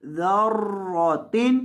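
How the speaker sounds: ज़र्रतिन slowly with a thick रॉ; heavy ra. Shown as a demonstration. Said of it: "रॉ को मोटा करेंगे". (ज़र्रतिन, मोटी रॉ)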